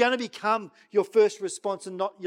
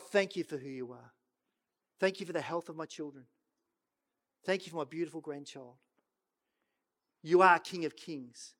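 softer modelled prayer; 2 semitones lower, 3 dB quieter than usual. Pretend.

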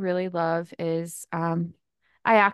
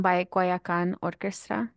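Americanized English accent on the Spanish band name. Real, not acted. Friend naming a salsa band to her friend, Americanized accent. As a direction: say the band name with an English-speaker's accent. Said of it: "Why do I sound so white today?".

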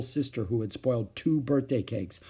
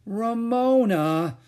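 slow, high, stunned scold; 11 semitones higher, 5 dB louder, much slower than usual. A narrator's reading. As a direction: start to scold, then stop. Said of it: "began Mother and stopped".

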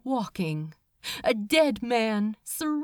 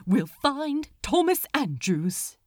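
firm; 5 semitones higher than usual. Acted. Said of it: "said Aziraphale firmly".

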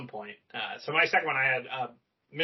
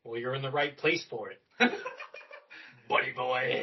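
mock venomous Mister Sir; 4 semitones lower than usual. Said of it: "the fucking venom in that last line".

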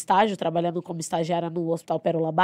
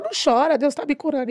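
consoling; 7 semitones higher than usual. Retold or imitated. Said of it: "ela falava".

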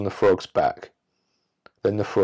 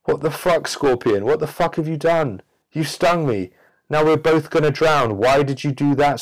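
high, loud outraged cry; betrayed frog; 7 semitones higher, 3 dB louder than usual. Acted. Stung frog yelling at the scorpion, high and outraged. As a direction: shout the betrayal in shock. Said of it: "turns round to the scorpion and says".

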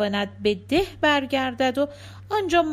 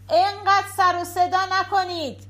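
high-pitched, moderately raised call; shouting from another room; 7 semitones higher than usual. Acted. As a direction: call out a complaint from the office. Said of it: "آقا از تو دفتر کارش فریاد زد". (فریادِ معترض از اتاق دیگر)

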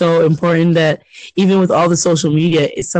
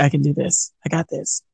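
muttered to himself; 2 semitones lower, 7 dB quieter than usual. Retold or imitated. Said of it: "He was talking to himself".

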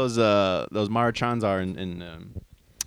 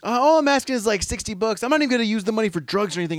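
homeless guy voice; 9 semitones higher than usual. Retold or imitated. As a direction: raise the pitch and drag it out. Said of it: "He goes".

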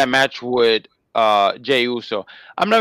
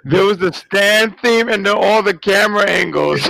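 talking through real laughter, a little raised; laughing; 6 semitones higher, 4 dB louder than usual. Real, not acted. Co-host apologizing for the clip, still laughing. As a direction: still cracking up while explaining. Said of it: "I'm laughing so hard".

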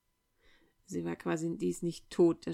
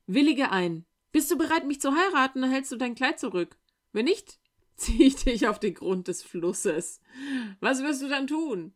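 lightly voiced threatening serpent, higher and louder; threatening snake; 5 semitones higher, 5 dB louder than usual. A narrator's reading. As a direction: push the threat up and out. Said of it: "snake threatens Mirschan".

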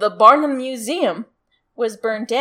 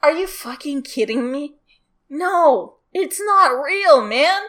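higher, emphatic rebuttal; mock incredulous arguing; 3 semitones higher than usual. Rival newspaper disputing the mermaid, mock incredulity. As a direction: argue back, lightly hammed up. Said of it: "two newspapers who were fighting each other".

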